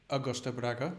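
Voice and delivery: Augusto Braga in a Spanish accent, rolled and open vowels. Shown as a demonstration. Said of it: "I'm doing it in, like, a Spanish accent".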